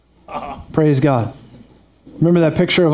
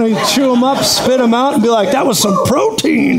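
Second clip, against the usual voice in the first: higher, punchy brag, last words slowed; cocky boast; 4 semitones higher than usual. Retold or imitated. Pastor bragging how believers devour problems, high and cocky. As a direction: toss it off like a champ after a meal.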